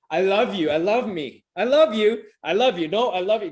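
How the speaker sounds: calling up the stairs, loud and bright; loud loving call. Retold or imitated. To kids upstairs, a loud loving call.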